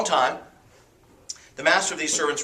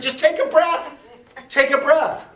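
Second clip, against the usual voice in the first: mock-sweet Peter; 12 semitones higher, 5 dB louder than usual. Peter's punchline, mocking.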